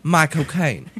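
quick Cockney accent "My cocaine". Shown as a demonstration. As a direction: toss off "My cocaine" Cockney style. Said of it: "Right in the Cockney accent there".

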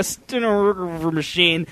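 "stenographer" slurred into a garbled mumble of r sounds; fumbled word. Real, not acted. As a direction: stumble slowly through "stenographer", smearing its middle syllables. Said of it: "I don't know what it's called".

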